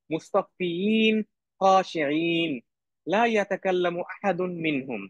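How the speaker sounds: slow measured Arabic recitation; teacher leading class to repeat the verse; repeat-after-me recitation. Shown as a demonstration. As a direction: chant it clearly so students can follow. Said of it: "আপনারা আমার সাথে সাথে বলবেন".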